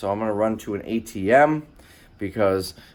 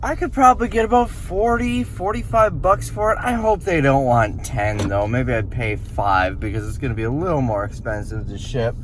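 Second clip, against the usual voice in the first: mock private aside; 2 semitones higher than usual. Shopper weighing resale profit, mock aside to himself. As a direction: act out a private calculation, not really quiet. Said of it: "I say quietly to myself".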